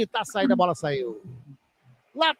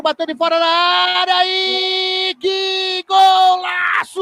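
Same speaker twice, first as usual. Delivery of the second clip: explosive goal commentary; 7 semitones higher, 3 dB louder, slower than usual. Real, not acted. Goal scored, commentator erupts.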